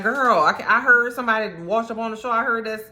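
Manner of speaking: a friend calls to check on the widow, high and rushed; gossipy friend. Retold or imitated. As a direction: rattle it off like a nosy friend calling. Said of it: "They like".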